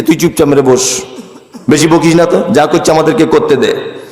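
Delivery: low, dismissive telling-off; mild hushing order. Acted. Rival party leaders silencing an agitator, low hushing order.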